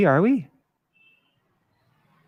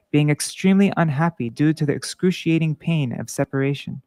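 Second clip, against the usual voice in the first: measured read-aloud of a sacred verse; scripture reading. A narrator's reading. Reader gives the verse about the gopis to listeners, measured scripture reading. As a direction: read the translation out with steady, deliberate phrasing.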